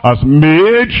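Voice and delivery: slow, deliberate reading of scripture. Real, not acted. Preacher reading the verse slowly to the church. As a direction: draw out each word of the verse.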